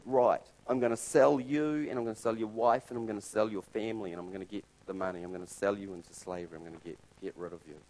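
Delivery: starts loud and forceful, then speeds up and fades; a king passing harsh sentence, rushing at the end; loud stern decree trailing off fast; stern king's verdict. Retold or imitated. King condemns servant and family.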